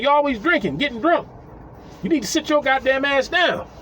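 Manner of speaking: high mock scolding. Scolding drunk woman.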